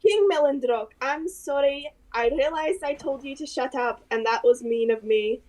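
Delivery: lightly voiced apologetic character; hesitant in-character apology to a king; a touch of character accent, contrite; Solace, apologetic adventurer.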